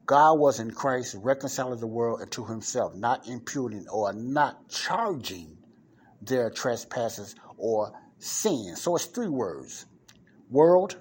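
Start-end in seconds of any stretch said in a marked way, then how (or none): 0.1-8.8 slow plain explanation. Shown as a demonstration. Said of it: "Let me make it in a plain way". 10.5-11.0 World shouted high and loud, rising; emphatic shout. Real, not acted. Preacher calling out World to the church, loud and high. Preacher stressing key word.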